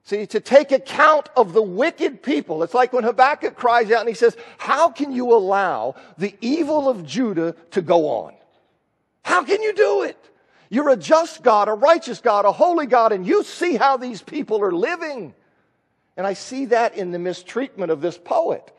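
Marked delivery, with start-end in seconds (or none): 4.6-15.3 a prophet's cry to God, lifted high on "How can you do it"; mock prophet's lament, pitched up at the peak; pleading prophet. Voicing Habakkuk's cry to God.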